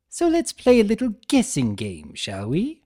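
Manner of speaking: high, bright showman pitch; game show host. Acted. Chaos spirit hosting a guessing game for the centaur. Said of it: "dressed as a game show host".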